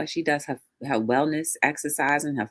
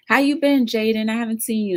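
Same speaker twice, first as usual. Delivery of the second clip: excited greeting; 7 semitones higher, 4 dB louder, faster than usual. Real, not acted. Greeting a viewer by name.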